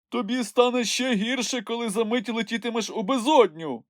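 mild snap. A narrator's reading. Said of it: "гарикнув Нюхмумрик".

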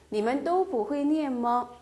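each syllable spelled out slowly; slow model reading. Shown as a demonstration. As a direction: read it slowly for learners. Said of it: "또 발음하실 때는 오". (천천히 또박또박 읽는 예문)

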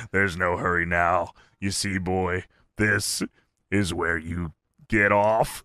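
low, quiet dread; Undertaker voice. Retold or imitated. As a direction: Undertaker threatening Austin in the dark. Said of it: "Taker says".

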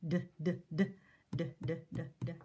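repeated d sounds, clipped; sounding out d. Shown as a demonstration. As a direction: tap out d, d, d. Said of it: "what's the last sound in and?".

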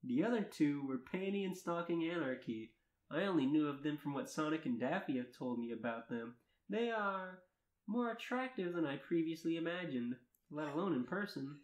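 earnest read-aloud of a first-person tale; story narration. Acted. Narrator reading fan fiction to friends, story narration. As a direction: narrate it in measured, lilting sentences.

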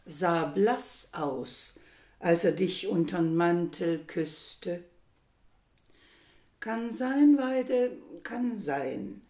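slow, measured poetry reading with pauses between lines; poem recital. Acted. Host reads a Sarah Kirsch poem to listeners, slow measured recital. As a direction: recite the verse slowly, letting each line stand.

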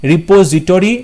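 "রিপোজিটরি" ending in a rounded "to-ri"; "-tori" ending. Shown as a demonstration. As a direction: sound out "রিপোজিটরি" as ri-po-zi-TO-ri. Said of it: "টি ও, তাই option B".

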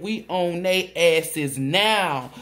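slow, weighted delivery; slow emphasis. Retold or imitated. Reader repeating spirit's warning, slowed down. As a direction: lean on each word, drawn out. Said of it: "repeats it slower".

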